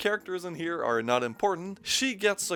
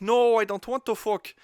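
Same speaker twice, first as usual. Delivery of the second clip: higher, louder mock girlfriend refusing; mock whiny refusal; 6 semitones higher, 4 dB louder than usual. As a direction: play the girlfriend refusing, pitched up and pushed. Acted couple's quarrel, her refusal.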